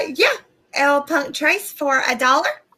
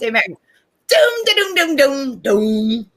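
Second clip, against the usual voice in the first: sick demon voice; slower than usual. Pretend. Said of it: "I'm gonna try it with sick voice".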